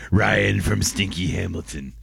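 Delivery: lightly voiced Hamilton character; Ryan in Hamilton impression. Morning show host renames himself for Hamilton, lightly put-on voice. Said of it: "best Ryan in Hamilton impression".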